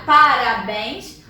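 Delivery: parabéns spaced out as "pa-ra-béns"; teacher breaking parabéns into its separate syllables; split into syllables. Shown as a demonstration. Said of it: "Quando eu separo".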